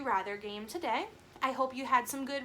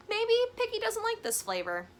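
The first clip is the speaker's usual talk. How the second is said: sly guess; 11 semitones higher, 5 dB louder than usual. Acted. Sly guessing at Gerald's thoughts.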